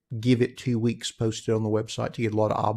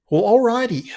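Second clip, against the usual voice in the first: excited; 12 semitones higher, 12 dB louder than usual. Real, not acted. Sudden loud burst after long chat.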